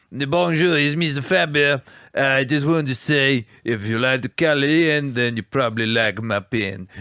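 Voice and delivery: a light hint of French charm on "Faber"; lightly voiced pen maker, nearly plain; Mister Faber.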